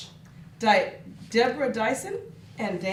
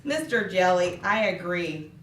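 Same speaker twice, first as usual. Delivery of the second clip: glum fish; 5 semitones lower than usual. Acted. Fish answers low and glum.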